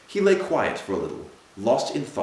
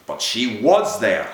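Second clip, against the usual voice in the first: slow, louder groan of despair; 6 dB louder, slower than usual. A narrator's reading. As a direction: drag it out, groaning in anguish. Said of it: "he groaned to himself".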